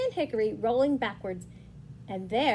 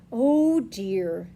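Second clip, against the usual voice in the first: louder, drawn-out mild dismay; tutting; 6 dB louder than usual. Acted. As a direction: tut at a mishap like an old hand. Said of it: "tutted Badger".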